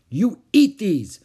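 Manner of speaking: high, loud, drawn-out command; yelled order. A narrator's reading. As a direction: yell it like a bossy child. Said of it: "Ramona yelled".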